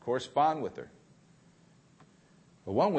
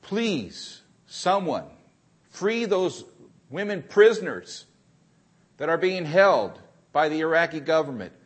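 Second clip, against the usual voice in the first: begging hostage; 3 semitones higher, 4 dB louder than usual. Retold or imitated. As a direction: beg for her life to the camera. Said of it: "she's begging for her life".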